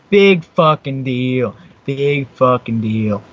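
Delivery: slow, drawn-out sarcasm; slow, scornful shrug in the voice; dismissive. Real, not acted. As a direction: stretch each word, unimpressed. Dismissing someone saying his name.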